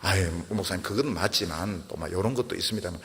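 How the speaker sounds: gentle explaining. Retold or imitated. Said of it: "그렇게 막 자신은 막 급해서".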